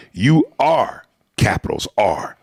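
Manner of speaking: "are" set apart for weight; stress on ARE. Real, not acted. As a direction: lean firmly on "are". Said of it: "capitals R".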